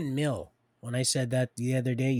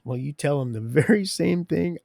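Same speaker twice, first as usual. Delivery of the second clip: louder, lighter voice of the Lord; voicing the Lord; 3 semitones higher, 4 dB louder than usual. The Lord telling the speaker to pass it on, commanding. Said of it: "and he goes".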